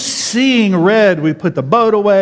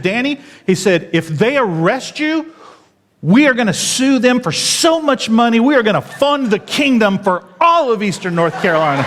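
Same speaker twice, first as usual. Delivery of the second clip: retold fury; 5 semitones higher than usual. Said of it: "He was so mad".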